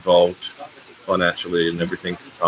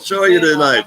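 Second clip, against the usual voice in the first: higher, louder sarcastic crowd voice; mock disbelief; 9 semitones higher, 6 dB louder than usual. Host mimics the club crowd doubting him, sarcastic. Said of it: "everyone went".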